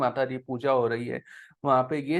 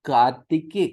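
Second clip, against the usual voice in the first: scripture reading; 6 dB louder than usual. Shown as a demonstration. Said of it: "पढ़ो".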